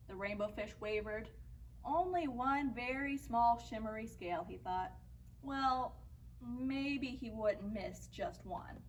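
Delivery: put-on measured picture-book reading for young listeners; story narration. A narrator's reading. Teacher reads a fish story to children, story narration.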